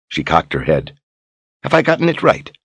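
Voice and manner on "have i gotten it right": high taunting query; mock innocent question. Sister taunting Brogan after the insult, mock sweet. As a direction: needle him with a sweet question.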